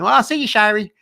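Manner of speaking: high, loud goofy farewell; dorky hillbilly rock singer. Retold or imitated. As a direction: wave him off like a hick rock star. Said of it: "he sounds kinda like a little kinda dorky".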